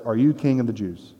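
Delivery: sarcastic Pilate doubting the prisoner. Shown as a demonstration. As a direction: ask it with scorn and disbelief. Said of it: "you can hear the doubt or even the sarcasm".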